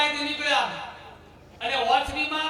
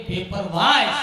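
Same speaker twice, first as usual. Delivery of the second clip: stern order; 2 semitones lower, 5 dB louder than usual. Retold or imitated. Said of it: "ડોળા કાઢીને એમ કે".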